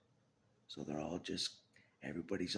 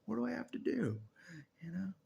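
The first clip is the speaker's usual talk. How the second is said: much higher, bright mock-casual greeting; mock greeting to Jesus; 12 semitones higher, 3 dB louder than usual. To Jesus in the afterlife, a high mock-casual greeting. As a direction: chirp it up like a cheeky hello. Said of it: "I wake up and I say".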